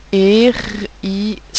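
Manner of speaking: hérisson drawn out slowly; dictation voice. Shown as a demonstration. Teacher repeating hérisson for pupils, slow. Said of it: "dictating the word again".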